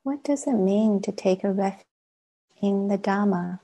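measured meditation guidance with long silences; guided meditation. Acted. Teacher leading a class into sitting practice, guided meditation. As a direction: guide them gently inward, pausing long between phrases.

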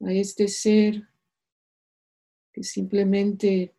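calm meditation voice with long pauses; unhurried, soothing meditation leader; guided meditation. Acted. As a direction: guide them gently into stillness, leaving space between phrases.

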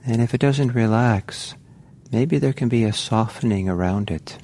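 calm, unhurried meditation guiding with long pauses; guided meditation. Real, not acted. Teacher guiding meditators to relax into the body, calm guided meditation. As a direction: ease listeners gently into relaxing, leaving space between phrases.

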